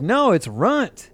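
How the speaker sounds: high, drawn-out redneck twang; redneck Texas accent. Retold or imitated. Redneck surfer correcting his teacher, slow Texas accent. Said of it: "this redneck that I taught".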